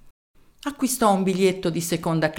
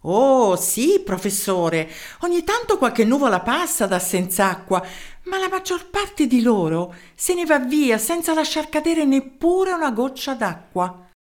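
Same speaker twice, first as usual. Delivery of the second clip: a higher, eager mayor's voice; 6 semitones higher than usual. Acted. Mayor introducing himself to the professor, eager. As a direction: introduce yourself keenly down the phone.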